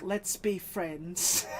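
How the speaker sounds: slow, drawn-out Let's be friends; sing-song bratty mimic; mocking a bratty little kid. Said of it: "Sitting there like".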